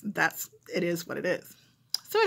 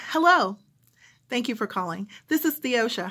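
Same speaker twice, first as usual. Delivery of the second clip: phone operator voice. Retold or imitated. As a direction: sound like you're smiling into the headset. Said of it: "play both of the parts of myself as the, um, phone operator".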